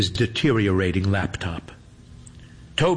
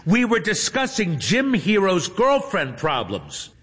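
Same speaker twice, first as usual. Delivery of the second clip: sweet streamer voice; 10 semitones higher than usual. A narrator's reading. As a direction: coo at a favourite fan.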